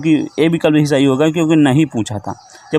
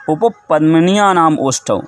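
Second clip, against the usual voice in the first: measured teacher recital; slow recitation; slower than usual. Shown as a demonstration. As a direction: recite the rule slowly word by word. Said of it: "तो इसके लिए सूत्र है".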